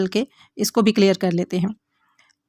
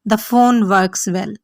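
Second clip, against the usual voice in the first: very slow, each word laid out for learners; slow model sentence; much slower than usual. Shown as a demonstration. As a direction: dictate it word by word to the class. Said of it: "teacher models an English sentence".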